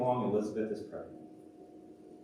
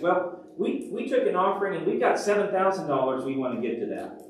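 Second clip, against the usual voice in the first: high, loud, eager caller; caller on the phone; 7 semitones higher, 4 dB louder than usual. Acted. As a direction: announce the offer excitedly down the line. Acts out the caller's offer.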